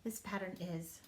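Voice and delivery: hushed whisper; whispered to the class. Real, not acted. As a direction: drop to a whisper.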